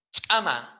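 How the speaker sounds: "Chama" with a popped ejective CH; explosive CH. Shown as a demonstration. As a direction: strike the CH of "Chama" loudly. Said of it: "C H explosiva".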